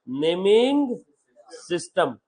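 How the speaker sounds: "नेमिंग ... सिस्टम" word by word, with a pause between; spaced-out repetition. Shown as a demonstration. Teacher repeating a new term to students, spaced out word by word. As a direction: draw out नेमिंग, pause, then drop on सिस्टम.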